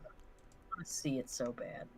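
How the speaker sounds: breathy whisper through a laugh; laughing whispered begging; whispered plea. Real, not acted. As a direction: beg under your breath. Begging to see comic.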